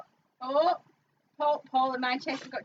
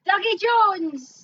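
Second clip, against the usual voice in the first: slow announcement; 6 semitones higher, 7 dB louder, slower than usual. Acted. Slow loud name announcement.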